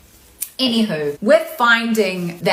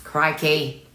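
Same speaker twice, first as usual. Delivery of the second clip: holding back tears. Real, not acted. Streamer thinking toenails so as not to cry, holding back tears. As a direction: chant it to stop yourself crying, voice climbing at the end. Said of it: "gonna have to think toenails again".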